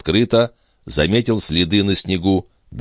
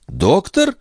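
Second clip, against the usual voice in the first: anguished cry; 14 semitones higher than usual. Acted. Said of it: "вскричала Андреа страдальческим голосом".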